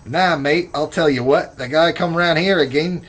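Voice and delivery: playful Australian impression; Australian accent. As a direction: put on a hammed-up Aussie accent. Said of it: "That was pretty good".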